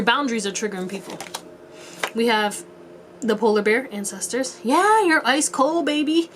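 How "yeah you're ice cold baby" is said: slow, high, teasing drawl; playful. Real, not acted. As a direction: stretch it out teasingly. Playful drawn-out statement.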